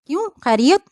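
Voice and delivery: harsh retort. A narrator's reading. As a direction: snap it back rudely. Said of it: "میں نے کرخت لہجے میں کہا". (کرخت لہجے میں سوال)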